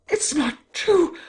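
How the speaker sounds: "It's not true!" high and slow, rising on "true" in shock; high disbelieving cry. A narrator's reading. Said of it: "she screamed".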